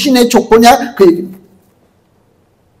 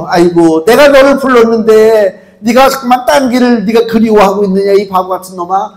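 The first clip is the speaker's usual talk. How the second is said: God scolding. Retold or imitated. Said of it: "하나님 그러시잖아요".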